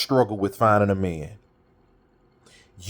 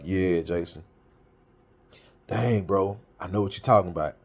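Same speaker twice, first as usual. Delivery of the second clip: lower, softer, sheepish friend voice; friend conceding; 4 semitones lower, 4 dB quieter than usual. Retold or imitated. Friend admitting Jason was right, low and subdued. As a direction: give in like a caught-out buddy.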